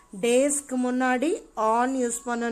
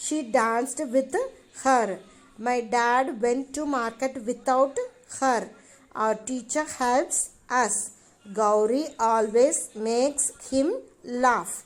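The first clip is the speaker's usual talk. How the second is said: slow, careful reading of the exercise sentences; slower than usual. Shown as a demonstration. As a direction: read each sentence slowly for the class. Reads example sentences slowly. (மெதுவாக வாசிப்பது)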